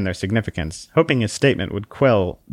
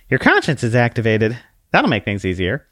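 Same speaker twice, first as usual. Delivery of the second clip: prim little book voice; 2 semitones higher than usual. Acted. Book notes Conscience.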